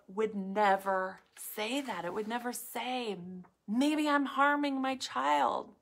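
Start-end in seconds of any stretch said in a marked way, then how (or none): 3.7-5.7 fearful inner voice. Retold or imitated. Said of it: "That's the voice of fear".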